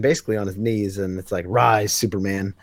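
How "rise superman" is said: slow, low villain command; slow and menacing, a hint of Rogol Zar; badass villain line. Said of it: "such a badass line".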